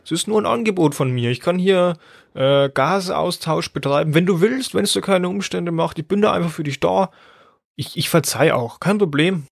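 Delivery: lightly voiced lung offering its services sweetly; passive-aggressive lung. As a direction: play the martyr who forgives everything. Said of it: "dass die Lunge so ein bisschen passiv-aggressiv ist".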